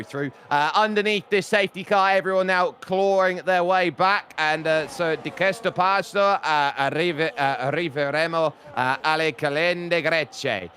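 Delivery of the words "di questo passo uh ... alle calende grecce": careful, deliberate Italian phrasing; Italian pronunciation. Real, not acted. Commentator trying an Italian saying on air, Italian accent. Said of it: "very impressed with your pronunciation".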